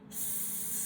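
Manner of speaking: long S sliding into sh; s into sh demo. Shown as a demonstration. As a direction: hiss S then round into sh. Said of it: "Let's do it again".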